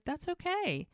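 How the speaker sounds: high-pitched gentle reassurance; acted reassurance, lifted in pitch; reassuring. Boyfriend reassures his apologetic girlfriend.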